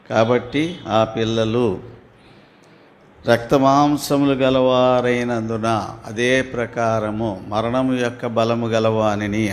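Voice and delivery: slow, measured Bible reading; unhurried reading of holy text; scripture reading. Acted. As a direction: read the verse slowly and solemnly. Reads the Hebrews passage aloud.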